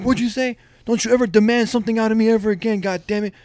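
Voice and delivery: mild mock-angry reprimand; retold teacher yelling. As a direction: imitate an offended coach, without full shouting. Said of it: "he fucking yelled at me".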